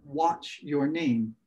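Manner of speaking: "Watch your name" with watch said like wat; "Watch" pronounced wat, as the word for relógio; misheard watch. Retold or imitated. Speaker retelling the misheard question, pron "Watch" as wat. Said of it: "watch significa o relógio de pulso".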